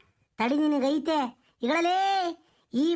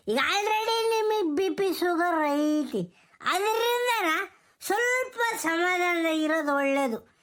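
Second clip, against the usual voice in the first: weepy consoling; 2 semitones higher, slower than usual. Acted.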